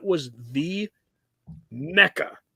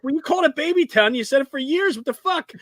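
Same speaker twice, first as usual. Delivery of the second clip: exasperated son; 11 semitones higher, faster than usual. Retold or imitated. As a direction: confront your dad in disbelief. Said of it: "And I was like".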